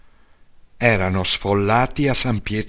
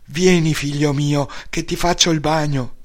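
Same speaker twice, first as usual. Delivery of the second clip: mother's voice; 6 semitones higher than usual. Retold or imitated. Mother greets returning son.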